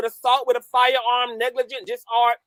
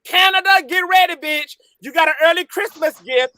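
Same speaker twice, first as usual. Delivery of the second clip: gloating taunt; 5 semitones higher, faster than usual. Real, not acted. Taunting about deportation.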